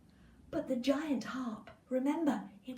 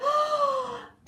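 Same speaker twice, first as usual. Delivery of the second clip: dramatic gasp; 9 dB louder than usual. Acted. Beanstalk falls.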